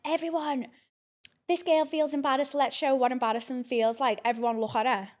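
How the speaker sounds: lightly acted public call-out; mock teacher announcement. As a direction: imitate a teacher calling everyone's attention. Teacher calls everyone to stare.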